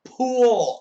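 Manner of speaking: high, loud, drawn-out cry; mock-horrified texter shouting; exclaimed correction. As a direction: yell the corrected word. Acted shouted correction of typo.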